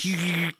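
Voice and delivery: mouth-made static sound; quick radio squelch noise; imitated radio noise.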